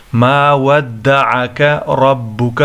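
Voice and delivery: slow recitation with a thick, full R in ربك; ربك begun with a full-mouthed "raw"; heavy r. Shown as a demonstration. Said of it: "موٹا کر کے پڑھنا ہوگا".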